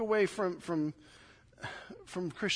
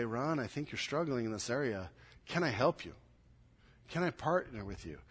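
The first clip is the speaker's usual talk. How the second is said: gentle concern; 6 semitones lower, 7 dB quieter than usual. Acted. Concerned friend gently offers help.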